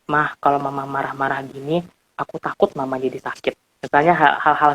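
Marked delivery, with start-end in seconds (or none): 0.1-3.6 soft, sincere and low; gentle I message. Retold or imitated. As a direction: quietly tell mom how you feel. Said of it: "Misalnya seperti itu". (anak berbicara lembut kepada mama)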